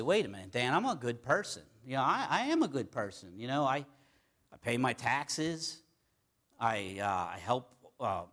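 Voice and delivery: mock objector insisting on their goodness; earnest self-justifying protest, lightly acted; indignant protest. Upset churchgoer objecting to being called not good, mildly indignant.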